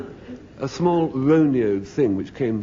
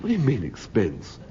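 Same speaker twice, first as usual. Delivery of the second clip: querying retort. Retold or imitated. Wife answers husband's outcry, mildly challenging retort. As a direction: throw the word back at him, lightly acted.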